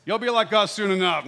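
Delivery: old Christians brushing off the eager new believer, mock condescension; jaded churchgoer. A hint of weary scorn. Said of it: "we're like".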